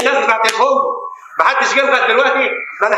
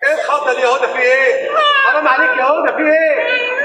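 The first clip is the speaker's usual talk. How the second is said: مخضوض; 5 semitones higher than usual. Acted. هدى خضته.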